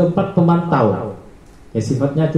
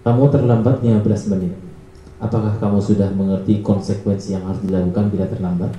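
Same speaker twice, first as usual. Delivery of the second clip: flat monitoring tone; 5 semitones lower than usual. Shown as a demonstration. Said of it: "nada suara datar".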